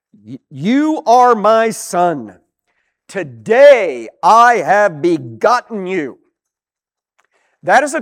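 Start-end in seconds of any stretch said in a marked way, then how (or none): 0.1-6.2 loud, slow, each word weighed; emphatic reading. Shown as a demonstration. Preacher reading the Psalm quote aloud, slow and loud. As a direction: proclaim it slowly to the congregation.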